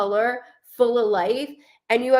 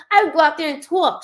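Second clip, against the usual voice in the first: mom's chatty voice, pitched higher and louder, fast; imitating mom; 6 semitones higher, 5 dB louder, faster than usual. Mother talking about her garden, mock chatty and higher. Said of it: "She might not have my accent, but she talks like she does".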